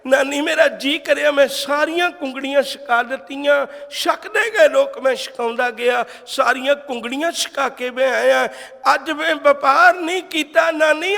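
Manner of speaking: a grandson's rising, lightly acted excitement; excited confession. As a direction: tell grandmother eagerly, building as you go. (ਜੋਸ਼ ਨਾਲ ਨਾਨੀ ਨੂੰ ਦੱਸਦਾ ਪੋਤਰਾ)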